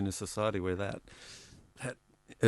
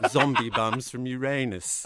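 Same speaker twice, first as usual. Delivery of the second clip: put-on English accent; 4 semitones higher, 5 dB louder than usual. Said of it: "Read in this beautiful English accent".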